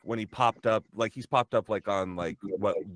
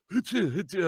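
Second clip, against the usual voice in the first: high, playful hoo-choo; imitated hoo-choo noise; 10 semitones higher than usual. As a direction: make silly high hoo-choo sounds. Imitates own noises while recording.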